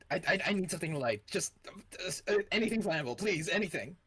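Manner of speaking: high, hurried, desperate begging; panicked plea. Acted. He begs Megan for anything flammable, panicked. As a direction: grab at the words like he's out of time. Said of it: "in a panic".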